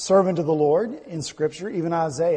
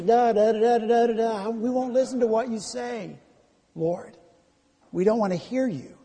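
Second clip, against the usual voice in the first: mock childish la-la chant, pitched higher; refusing to listen; 4 semitones higher than usual. Rebellious nation to the Lord, mock defiant. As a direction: drown out the other voice like a stubborn child. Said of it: "Their ears were in their fingers".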